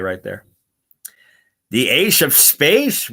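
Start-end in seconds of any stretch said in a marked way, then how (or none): 1.7-3.1 drawn-out, questioning slur; puzzled exaggerated reading. Streamer reads out a viewer's mistyped title, puzzled and drawn out. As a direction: stretch it out, swooping up in doubt.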